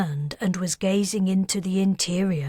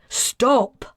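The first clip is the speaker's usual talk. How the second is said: shout; 5 semitones higher, 5 dB louder than usual. A narrator's reading. Kez shouts during the fight.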